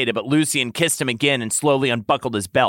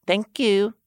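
sighing; 8 semitones higher than usual. Acted. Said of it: "Tamlin sighed".

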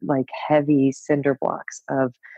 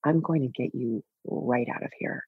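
tender reassurance; 3 semitones lower, 6 dB quieter than usual. Retold or imitated. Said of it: "I put my hand on my chest and I said out loud to her".

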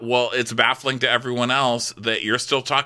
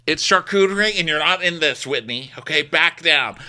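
higher, indignant Heather; hammed-up rebuke of Whitney; mock snap; 6 semitones higher than usual. Co-host acting Heather telling Whitney to back down, indignant. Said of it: "Heather snapping at Whitney".

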